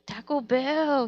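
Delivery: slow, high, loud mom imitation; exaggerated little-lady impression; little Asian mom. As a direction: stretch it out in delighted mom voice. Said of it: "This little Asian lady, she's like".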